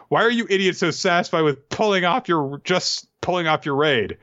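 a cartoonish high Usopp voice, mock heroic; impassioned Usopp. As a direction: rant at the samurai like a scrappy coward turned hero.

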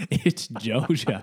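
Georgia drawn out slowly as "Joe-juh", through a laugh; slow, amused "Joe-ja" for Georgia; local Mableton pronunciation. Shown as a demonstration. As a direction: laughingly say Georgia without its first R. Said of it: "that's how they say it in Mableton".

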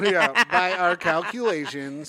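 robot voice. Pretend. Continuing robot voice bit.

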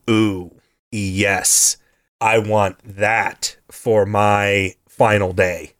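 low, slow, smooth ladies' man; suave. Retold or imitated. Possessing ghost admiring Shani, suave. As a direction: savor each word, low and unhurried. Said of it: "So he's very suave".

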